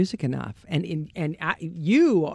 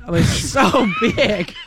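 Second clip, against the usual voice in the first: gushing; 6 semitones higher than usual. Real, not acted. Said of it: "I didn't have the urge to say it like that".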